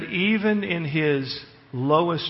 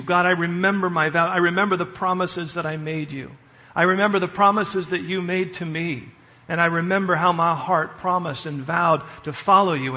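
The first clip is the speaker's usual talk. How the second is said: higher, louder, fervent vow to God; fervent prayer; 3 semitones higher, 4 dB louder than usual. Retold or imitated. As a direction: pour out the promise with rising passion. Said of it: "He says".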